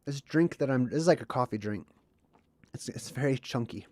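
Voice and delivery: chewing while talking; mouth full. Real, not acted. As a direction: talk through a chunky mouthful. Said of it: "excuse me if I'm making chewing sounds".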